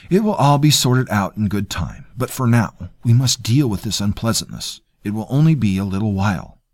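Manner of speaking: a hint of a smug, polite cousin; smooth courtier. Terrell evasive.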